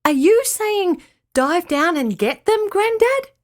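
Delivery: high questioning yell to grandad; Summer yelling. Acted. Summer guesses what grandad means, yelling high. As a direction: call out the guess, pitched high. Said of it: "Summer suddenly yelled out".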